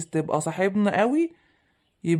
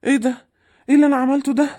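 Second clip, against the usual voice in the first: panicked remorse; 4 semitones higher than usual. Acted. The son panicking over his fallen mother, pleading. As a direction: panic as you call to her.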